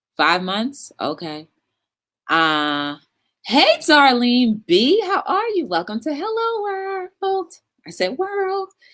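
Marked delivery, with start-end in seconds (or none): 5.7-7.6 voice cracking and breaking up very high. Greeting a viewer by name to the show, voice cracking. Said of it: "My voice cracked a little bit".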